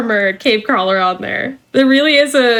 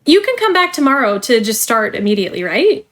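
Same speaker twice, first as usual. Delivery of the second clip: polished corporate trainer voice; cheerful company onboarding spiel; customer service voice. Acted. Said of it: "let me put away my customer service voice now".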